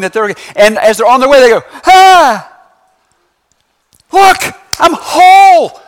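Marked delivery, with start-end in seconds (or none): 1.9-5.8 high, loud gasp of wonder; amazed discovery. Acted. Leper finds himself healed on the way, amazed. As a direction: cry out in amazement, stretching the last word.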